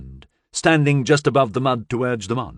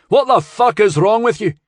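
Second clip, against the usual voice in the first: angry yell; 11 semitones higher, 7 dB louder than usual. Acted. Shouting at unseen people.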